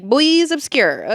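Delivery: Bois Obscur drawn out, high and slow; mock French reading. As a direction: savour Bois Obscur like a fancy label. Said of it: "reading it, I was like".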